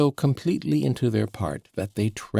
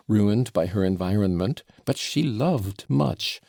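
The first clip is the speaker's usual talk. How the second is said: excited tirade. Acted. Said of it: "cried Fyodor Pavlovitch".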